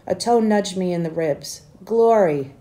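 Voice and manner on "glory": rough familiar voice. A narrator's reading. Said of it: "said a rough but familiar voice".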